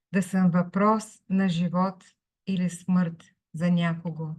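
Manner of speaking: measured poem recital in Bulgarian; poetry reading. Acted. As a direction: read it line by line, pausing after each. Reads own poem in Bulgarian.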